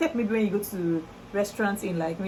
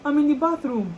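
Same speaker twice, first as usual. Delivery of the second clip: neighbor's apology; 4 semitones higher, 3 dB louder than usual. Retold or imitated. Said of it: "My neighbor will be like".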